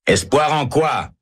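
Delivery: prisoner cries out at the chaplain, high and slow; cried out, high and slow. A narrator's reading. Condemned man cries at the priest, pitched high and slow. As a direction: fling the question out high and slow. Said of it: "crie Herbert".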